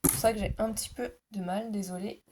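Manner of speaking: talking through a sore throat; strained voice from a sore throat. Real, not acted. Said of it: "j'ai mal à la gorge".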